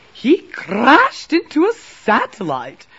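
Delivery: high, loud distressed queen; worried queen. A narrator's reading. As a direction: report the crash in loud alarm. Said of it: "She was very worried".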